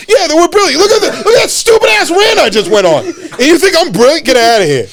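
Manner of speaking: high-pitched, laughing through the words; laughing at himself. Real, not acted. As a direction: laugh at your own rant as you speak. Laughing at his own rant.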